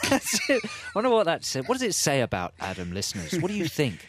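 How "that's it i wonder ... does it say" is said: words squeezed out through laughter; laughing. Real, not acted. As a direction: laugh while talking. Laughing at the whisper joke.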